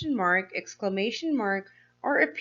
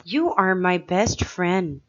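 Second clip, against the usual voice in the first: usual speaking voice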